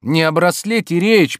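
slow, loud cutting in; interrupting. A narrator's reading. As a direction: cut her off firmly. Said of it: "перебил Обломов". (перебивая)

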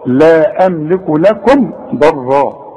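لكم with a clean, unnasalised m; slow recitation. Shown as a demonstration. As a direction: read slowly, lips shut on the m of لكم. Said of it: "وما تقفش".

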